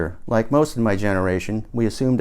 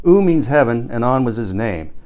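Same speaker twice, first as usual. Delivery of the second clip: emphatic; 4 dB louder than usual. Acted. Narrator voicing Paul's claim.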